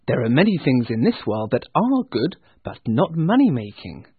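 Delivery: lively, lifted reply; earnest nephew. Acted. Nephew reasoning with his uncle, earnest. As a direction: argue back with warmth of conviction. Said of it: "replied the nephew".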